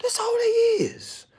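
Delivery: high, strained whisper; breathy whisper. Real, not acted. Speaker mocking suited men, high strained whisper. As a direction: squeeze it out mockingly.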